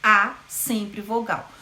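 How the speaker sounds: slow teaching emphasis; slow repetition. Shown as a demonstration. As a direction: repeat it slowly to drive it home. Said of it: "sempre semivogais".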